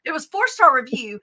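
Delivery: hushed confiding whisper; whispered aside. Real, not acted. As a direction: drop to a whisper as if sharing a secret. Confessing aside to host.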